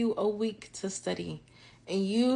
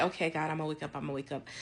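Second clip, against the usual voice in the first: sleepy reply; 3 semitones lower, 10 dB quieter, much faster than usual. Retold or imitated.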